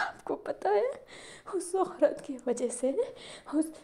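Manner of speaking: hushed, unvoiced bitterness; bitter whisper. A narrator's reading. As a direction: hiss it close to his ear. Daughter whispers bitter confession. (पिता से फुसफुसाकर कड़वी बात)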